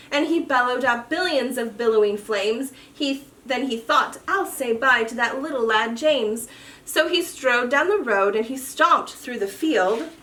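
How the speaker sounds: lively storybook read-aloud; reading to children. A narrator's reading. Reads a rhyming picture book.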